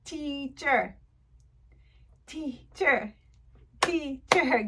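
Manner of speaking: "Teacher" in two separate beats; syllable by syllable. Shown as a demonstration. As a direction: clap out "Teacher" with a gap before the second syllable. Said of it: "this is your word".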